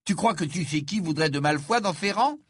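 put-on a high, disbelieving boy's voice; incredulous Ron. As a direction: play Ron, unable to believe it.

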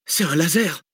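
high-pitched excited exclamation; called out. A narrator's reading. Researcher identifying the green light, calling out. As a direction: throw it out as a sudden realisation. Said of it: "lança la chercheuse".

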